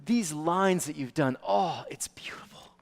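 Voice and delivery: parent's gentle encouragement to daughter; encouraging parent. Retold or imitated. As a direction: coax a shy child gently. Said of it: "tell her".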